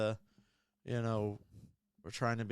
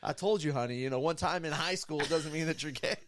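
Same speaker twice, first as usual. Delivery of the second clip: gay guy quote; 3 semitones higher than usual. Retold or imitated. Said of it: "the gay guy looks at me and goes".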